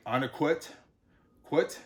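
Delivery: ONAQUIT, then quit, ending on T; Onaquit, then its last syllable quit alone; final D as T. Shown as a demonstration. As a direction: close Onaquit and quit with a clear T. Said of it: "takes on more of a T sound".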